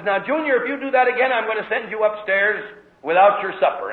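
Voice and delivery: a father scolding his son, raising his pitch; stern father's threat. Retold or imitated. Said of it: "father says".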